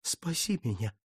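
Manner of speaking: low, soft, broken plea; plaintive moan. Acted. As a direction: moan it quietly to the statue. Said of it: "жалобно простонал он".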